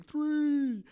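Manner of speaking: "Three!" shouted high and loud; excited shout. Real, not acted. Host hyping three generations of guests, excited shout. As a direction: burst out with it.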